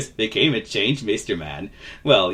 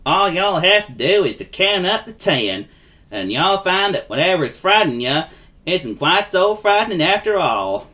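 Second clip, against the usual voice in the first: higher, drawling folksy voice; friendly vagabond; 8 semitones higher, 3 dB louder than usual. Acted. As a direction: confide kindly in a nervous little chap.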